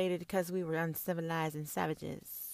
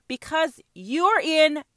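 mock Cuban reply; 4 semitones higher, 7 dB louder, slower than usual. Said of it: "said the Cubans".

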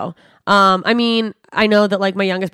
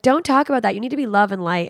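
mock scolding; 3 semitones higher than usual. Imitating a picture-perfect friend after a depression joke, mock scolding. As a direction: lightly imitate a positivity-pusher shutting someone down.

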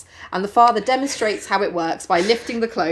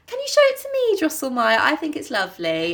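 gushing mum; 4 semitones higher than usual. Retold or imitated. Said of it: "the mum comes over like".

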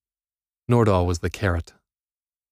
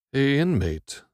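guard calling out; 7 semitones higher, slower than usual. A narrator's reading.

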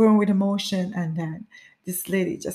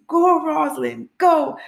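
high, raised cheer from the roadside; cheering crowd; 8 semitones higher, 4 dB louder than usual. Retold or imitated. Street crowd screaming a runner's name, encouraging cheer. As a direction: call out her name to spur her on. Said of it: "screaming out your name and encouraging you".

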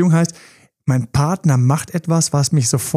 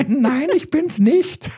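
disguised voice; 11 semitones higher, much slower than usual. Pretend. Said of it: "mit verstellter Stimme so".

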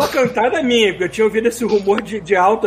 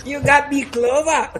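lighter leprechaun echo, half-laughing; a hint of a leprechaun; 5 semitones higher, much slower than usual. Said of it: "aprenda a falar que não lê Leprechaun".

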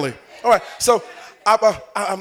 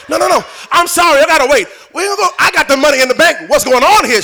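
acted indignant protest; 4 semitones higher than usual.

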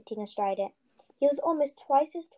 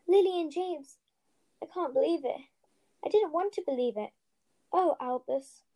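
shocked; 5 semitones higher than usual. Acted. McGonagall shocked by the news.

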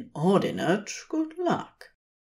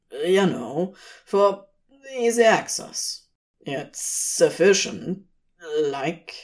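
hesitant demon; slower than usual. Acted. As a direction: ramble to cover embarrassment. Crowley voiced, hedging.

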